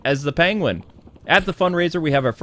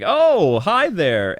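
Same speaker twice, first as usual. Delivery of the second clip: fake friendly; 4 semitones higher, much slower than usual. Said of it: "Bruce Wayne shows he's a real jerk".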